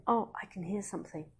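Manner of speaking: acted emphasis. Shown as a demonstration. Teacher modelling for parents how to notice sounds, acted emphasis. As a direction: act out noticing a faraway sound, without overdoing it. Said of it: "you're placing emphasis on something".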